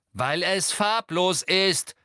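loud, high, slow annoyed retort; convincingly annoyed. Acted. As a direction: sell the annoyance. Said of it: "sagte Ginny überzeugend ärgerlich".

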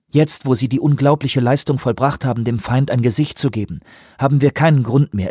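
lightly voiced official asking for time; Lee, pleading. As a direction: win him over, steady and firm. Lee persuades Johansson.

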